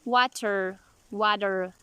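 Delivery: water said as wader, flapped T. Shown as a demonstration. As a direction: tap the T in water like a quick D. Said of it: "Flap T".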